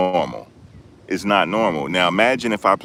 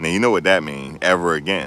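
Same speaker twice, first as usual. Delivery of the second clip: ordinary talk, nothing marked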